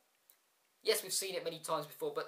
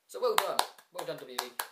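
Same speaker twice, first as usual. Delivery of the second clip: dry mocking "well done" aimed at WWE; sarcastic praise; 5 dB louder than usual. Real, not acted. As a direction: congratulate them with open sarcasm. Sarcastic praise after bad ending.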